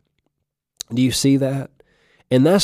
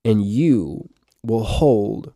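slow emphatic repeat; slower than usual. Shown as a demonstration. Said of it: "This is what I wanted to emphasize".

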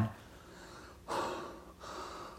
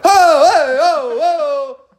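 high loud alarmed oh; alarmed coach; 9 dB louder, much slower than usual. Retold or imitated. Coach jumping in to stop the fight, alarmed. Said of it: "Coach Brinken's like".

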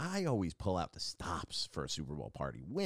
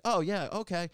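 imitating stranger; 10 semitones higher, 5 dB louder than usual. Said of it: "he was like".

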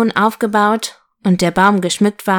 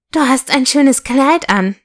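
lightly voiced, higher little engine; a hint of a small, friendly character; friendly little locomotive; 5 semitones higher than usual. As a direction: pipe up as a shy toy train complimenting a doll. Little locomotive Elisabeth addresses doll.

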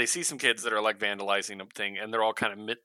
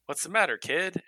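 lightly acted hero, higher pitch; a hint of concerned hero to a kid; lightly voiced Superman; 8 semitones higher than usual. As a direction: raise the pitch for a gentle check-in. Superman voiced talking to rescued kid.

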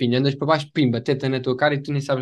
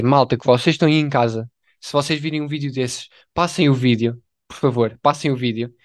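mock public appeal.

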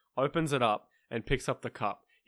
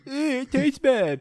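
imagined grimace; 12 semitones higher, 3 dB louder, slower than usual. Retold or imitated. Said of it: "we thought he would take a bit and go".

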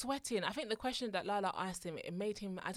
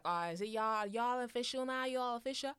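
lightly put-on American accent; a hint of American twang; 3 semitones higher than usual. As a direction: quote her in an imitation American accent. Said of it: "Your American, you can get arrested with that accent".

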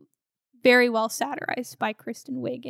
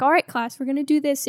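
calm yoga instructor; 2 semitones higher, faster than usual. Retold or imitated. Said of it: "she's got this really calm yoga instructor voice".

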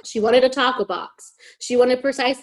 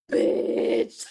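exasperated. Retold or imitated. Friend refuses the burritos.

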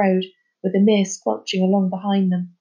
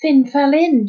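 curt; 5 semitones higher, 7 dB louder, slower than usual. Acted. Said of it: "she said shortly".

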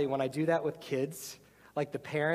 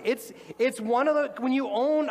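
emotional pitch; 9 semitones higher, 7 dB louder than usual. Real, not acted. Still emotional after insisting.

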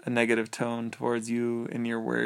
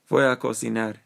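louder demo of a gringo accent; gringo-accented Spanish; 5 dB louder than usual. Shown as a demonstration. Showing a friend that "that's gringo", gringo accent. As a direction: say the Spanish with an unchanged English tone. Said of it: "tone of my voice doesn't change between English and Spanish".

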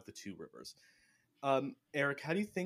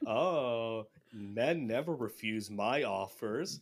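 slow, slinky come-on; seductive saleswoman; much slower than usual. Retold or imitated. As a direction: purr it like a temptress selling a deal. Kylie selling Asandra to Matt.

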